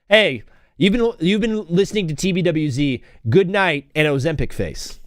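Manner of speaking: a hint of a station announcer closing the show; mock radio sign-off. Streamer inventing his own radio sign-off, mild announcer voice. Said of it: "I need to sign off like that".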